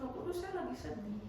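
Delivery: soft, low, humble asking; prayer for help. Acted. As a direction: ask quietly, as in private prayer. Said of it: "minta tolong sama Roh Kudus". (doa lirih minta tolong)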